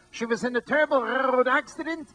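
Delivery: a lightly voiced old carnival barker; barker telling it. Retelling the headless girl as the old barker did, lightly voiced. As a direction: pitch it up like a sideshow talker. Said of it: "This is the way he sounded".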